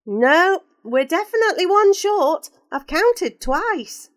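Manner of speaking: a teacher losing patience over the head count; exasperated teacher. Acted. Teacher realises a pupil is missing, flustered and loud.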